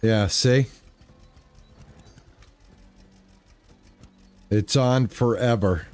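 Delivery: hoarse, rough pirate-like voice; raspy voice. Real, not acted. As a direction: rasp through the words. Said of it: "Now I sound like a pirate".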